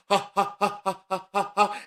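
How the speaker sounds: short quick panting breaths; panting like a dog. Shown as a demonstration. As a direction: pant from the belly like a dog. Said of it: "pant like a dog".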